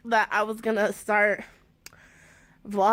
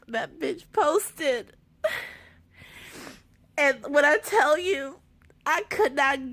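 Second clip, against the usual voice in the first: tearful; 4 semitones higher than usual. Real, not acted. Trailer posted, she breaks down.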